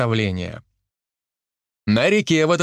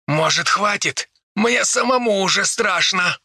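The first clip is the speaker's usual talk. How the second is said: holding back laughter; 7 semitones higher than usual. Acted. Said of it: "едва сдерживая смешок".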